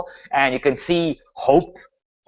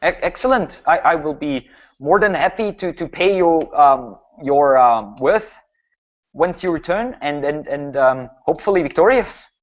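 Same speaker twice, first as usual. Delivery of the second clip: hesitant baron, slightly raised pitch; grateful village baron; 3 semitones higher than usual. Acted. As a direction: play a baron haltingly promising a reward.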